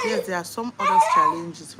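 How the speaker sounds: high, loud laugh through the words. Real, not acted. Mother talking about son's struggles, laughing loudly. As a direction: laugh it off while saying it.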